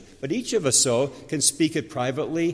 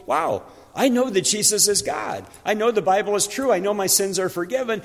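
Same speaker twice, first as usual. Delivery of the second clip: excited believer; 5 semitones higher than usual. Retold or imitated. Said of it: "where we're like".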